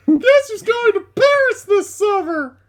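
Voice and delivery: high silly voice. Acted. Friend reads a relative's post in a squealing mock voice. Acting out a dumb Facebook post.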